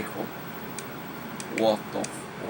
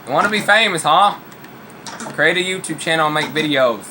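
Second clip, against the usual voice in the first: teasing the cat; 4 semitones higher, 4 dB louder than usual. Real, not acted.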